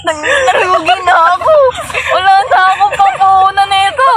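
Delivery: laughing. Real, not acted. Laughing complaint over lost goods.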